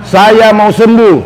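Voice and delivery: slow, stretched-out words to be repeated; slow model phrase. Shown as a demonstration. Therapist has stroke patient repeat after him, slow and drawn out. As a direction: say it slowly for a patient to copy.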